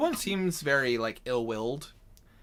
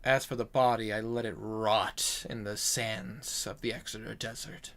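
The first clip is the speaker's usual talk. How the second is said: lightly voiced storyteller, low-key and measured; grave demon-slayer; 3 semitones lower, 4 dB quieter, slower than usual. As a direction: recount an old kill, voice sinking at line ends. Game master plays character telling his kill.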